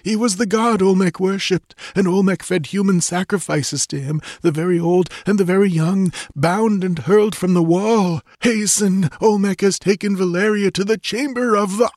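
high, gurgling voice of a dying man; urgent warning with failing breath. Acted. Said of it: "gurgled Tecuhtli".

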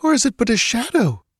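put-on high, timid girl's voice; doubtful and afraid; fearful girl. A narrator's reading. Girl wonders if the city is a mirage, high timid voice. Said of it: "she whispered".

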